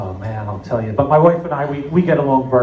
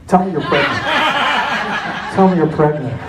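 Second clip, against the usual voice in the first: pleading; 4 semitones higher than usual. Retold or imitated. Pleading thought about daughter.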